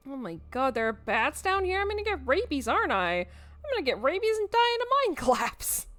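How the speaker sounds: high, loud panic breaking into a laugh; panicking. Acted. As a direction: spiral into nervous hysteria. Kanika panics about bats.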